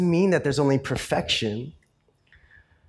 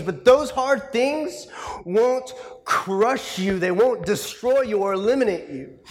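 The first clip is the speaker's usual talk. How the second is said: higher, impassioned, slowing preacher's climb; full force preaching; 10 semitones higher than usual. Real, not acted. Preacher urging the congregation that hard things won't crush them, impassioned. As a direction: preach it up with rising fervour.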